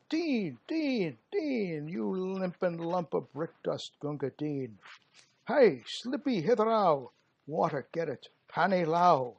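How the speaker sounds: put-on high, loud barracks call for the water-boy; soldiers calling out. Thirsty soldier hollering for the water-carrier Gunga Din, loud and high. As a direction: holler across the camp for the bhisti.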